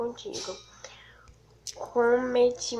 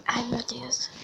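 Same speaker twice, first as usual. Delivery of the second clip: nervous whisper; 5 dB quieter, slower than usual. Real, not acted. Nervous while waiting for her reply.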